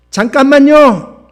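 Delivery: put-on high, drawn-out girlish shout; loud scolding cry. A narrator's reading. Schoolgirl halting the bus driver, loud scolding cry. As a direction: shout out sharply to stop everything. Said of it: "큰 소리로 호통을".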